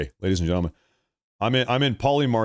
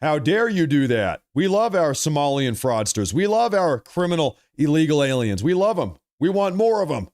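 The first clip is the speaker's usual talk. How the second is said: higher, whiny mock-outraged protester voice; hammed-up sneer at the far left crowd; 4 semitones higher than usual. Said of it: "down here saying".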